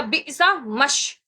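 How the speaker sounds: बी समश very slow, meem merged into sheen; joined sound. Shown as a demonstration. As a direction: draw out बी समश as one. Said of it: "इस तरह पढ़ना है".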